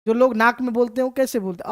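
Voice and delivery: ordinary talk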